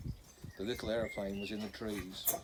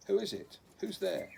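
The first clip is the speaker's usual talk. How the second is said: high, loud alarmed challenge from the dark; frightened call; 10 semitones higher, 5 dB louder than usual. A narrator's reading. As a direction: call out scared, warning the stranger off. Hidden girl calls out again.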